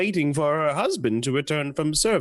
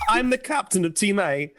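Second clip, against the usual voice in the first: put-on failed Australian accent. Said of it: "that was Cockney".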